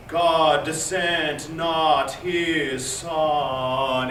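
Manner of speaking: "God sent not his son" spoken slowly, swelling toward son; crescendo demo. Shown as a demonstration. Director shows the basses the marked crescendo. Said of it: "we're gonna crescendo on that".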